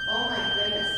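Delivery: squeaky high gasp of wonder; delighted surprise. Acted. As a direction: act amazed for the children, very high. Reacting to organ sound for kids.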